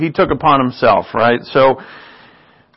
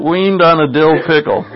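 amused repeat; 3 semitones higher than usual. Real, not acted. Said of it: "I love that phrase".

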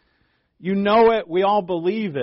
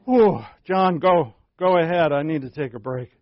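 worn-out Peter; 2 semitones higher, 6 dB louder than usual. Retold or imitated. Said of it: "See Peter with his plantar fasciitis kinda limping".

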